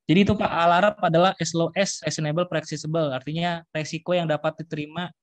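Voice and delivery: echoey room sound. Real, not acted. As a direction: voice ringing in a hall. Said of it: "Soalnya agak bergema di sini".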